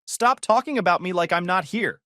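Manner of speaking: high loud shriek. Retold or imitated. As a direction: shriek it in outrage. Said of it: "she'd shriek".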